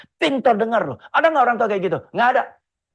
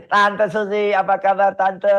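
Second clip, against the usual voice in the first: put-on chirpy kid voice, pitched up and louder; a small child proudly greeting an uncle; eager child greeting; 2 semitones higher, 4 dB louder, slower than usual. Kind grüßt Tante.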